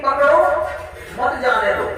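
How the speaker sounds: "पकड़ो" पर रुककर, फिर "मत जाने दो"; पकड़ो के बाद विराम. Shown as a demonstration. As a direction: pause after "पकड़ो", then "मत जाने दो" as one falling phrase. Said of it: "चोरों ने समझ लिया". ("पकड़ो" के बाद ठहराव, "मत जाने दो" एक साथ)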